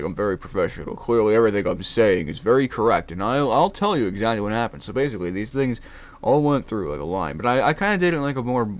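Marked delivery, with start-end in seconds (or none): 0.0-4.8 lightly voiced stiff investigator; deadpan by-the-book delivery; monotone professional. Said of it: "monotone on purpose and just kinda boring".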